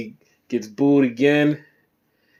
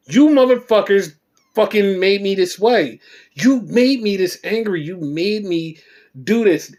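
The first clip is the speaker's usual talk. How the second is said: angry yell; 4 semitones higher than usual. Retold or imitated. Cena's angry promo, retold.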